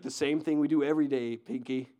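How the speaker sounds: lightly voiced scheming cartoon mouse; a hint of the plotting mastermind mouse; Brain from Pinky and the Brain. Preacher imitating Brain's plan, lightly voiced schemer. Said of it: "And he's like".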